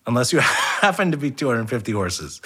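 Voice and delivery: chuckling through the punchline; laughing. Real, not acted. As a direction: laugh while you deliver it. Laughing through own joke.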